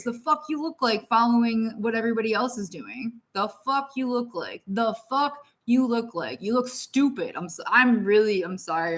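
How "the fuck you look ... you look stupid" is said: channeled scolding. Real, not acted. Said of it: "I'm channeling".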